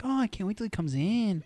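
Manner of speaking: a faint hint of a Russian accent on the stripper's line. Son retells his dad's Russian stripper friend, light Russian accent. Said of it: "That was my Russian accent".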